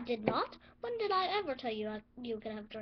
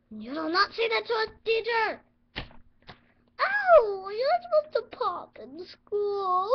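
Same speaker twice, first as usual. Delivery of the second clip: outraged crying shout; 5 semitones higher, 8 dB louder than usual. Acted. Teacher shocked, insulted.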